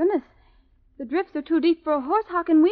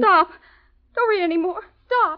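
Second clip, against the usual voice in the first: urgent plea to stop; frightened plea; 3 semitones higher than usual. Acted. Edna begging her friend to stop reading, frightened. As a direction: plead in growing dread.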